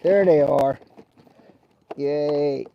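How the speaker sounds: loud happy relief at finding them; excited find. Real, not acted. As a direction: call out the find, pleased. Finds the lost scissors.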